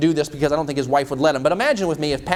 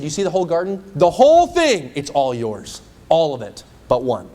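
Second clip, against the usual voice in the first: God's lavish offer; 5 dB louder than usual. Acted. God offering Adam and Eve the garden, excited. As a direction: show off the whole garden. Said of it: "He came to them and said".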